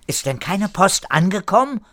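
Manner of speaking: high, loud questioning voice. A narrator's reading. Erika asks the newcomer about missing mail, loudly. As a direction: raise the voice and demand an answer. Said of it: "fragte Erika laut".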